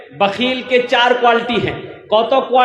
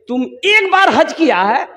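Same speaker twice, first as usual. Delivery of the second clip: retorting worshipper; 3 semitones higher than usual. Retold or imitated. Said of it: "बोले कि".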